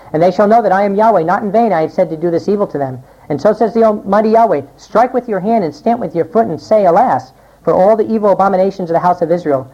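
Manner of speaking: measured scripture reading from the pulpit. Acted. Preacher reads Ezekiel's warning to the congregation, solemn and measured. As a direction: read it out like a prophet's warning.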